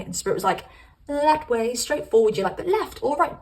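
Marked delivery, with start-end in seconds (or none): 1.1-2.4 insistent. Acted. Spirit insisting. 2.6-3.4 confused. Acted. Confused you asking.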